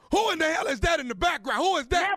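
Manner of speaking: mock yell. Prankster yells at background.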